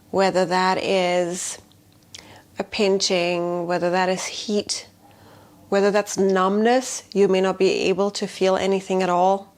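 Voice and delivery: calm, measured voice with long pauses; guided meditation. Shown as a demonstration. Healer leading a tapping affirmation for fear, guided meditation. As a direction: lead them gently, phrase by phrase, softening at phrase ends.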